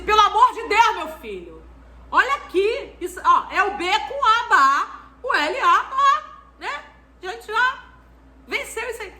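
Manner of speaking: high, exasperated teacher pleading, half laughing; exasperated plea. Retold or imitated. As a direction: plead with the child, pitch jumping up. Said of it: "eu virei pra criança e falei assim".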